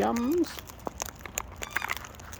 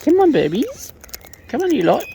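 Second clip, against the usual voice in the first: calling out; 6 semitones higher, 8 dB louder than usual. Real, not acted. Calling birds to feed.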